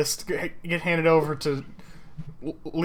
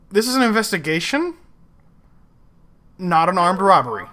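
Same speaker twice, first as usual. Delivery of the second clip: louder, exasperated correction; exasperated scolding; 5 dB louder than usual. Acted. Kat scolding the team over the weapons list, exasperated. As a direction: set them straight, louder and pointed.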